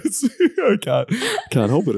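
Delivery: laughing while talking; giggling through the words; trying not to laugh. Real, not acted.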